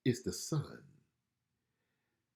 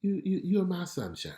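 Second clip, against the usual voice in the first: tender God's voice; 9 semitones higher than usual. Retold or imitated. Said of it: "So God is saying".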